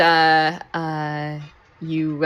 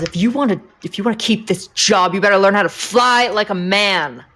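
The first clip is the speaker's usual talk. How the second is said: stern, emphatic acted warning; mildly heated in-character dressing-down; threatening male pilot; 2 semitones higher than usual. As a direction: lay down a threat, leaning on key words. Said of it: "points his finger right in her nose".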